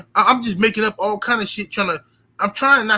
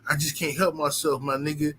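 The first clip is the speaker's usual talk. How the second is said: low, soft, sheepish confessing mumble; mock sorry thief; 4 semitones lower, 3 dB quieter than usual. Thief confessing his stealing problem, low sheepish mumble. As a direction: grovel quietly like a caught kleptomaniac. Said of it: "you can't apologize to me and say".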